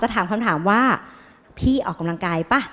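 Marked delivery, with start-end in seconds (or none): 1.2-2.6 lightly voiced doctor, slow and softer; mock the careless doctor, drawn out; blunt doctor question. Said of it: "ไม่ หมอไม่ถามอย่างนั้น".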